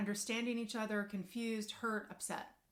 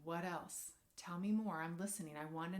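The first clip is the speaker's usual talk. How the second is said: soft listening; 3 semitones lower than usual. Shown as a demonstration. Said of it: "And you keep going".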